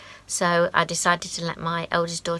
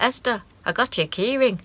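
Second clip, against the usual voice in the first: a bad, higher Irish accent imitating dad; rubbish Irish accent; 5 semitones higher than usual. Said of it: "That's a really rubbish accent".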